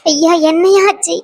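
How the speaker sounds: crying, voice breaking, pleading for news; tearful wailing. Acted. Grandmother pleading with Muthumari about Priya, tearful wailing. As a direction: wail in grief, sobbing between the words. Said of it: "அம்மா அழுவாதீங்க".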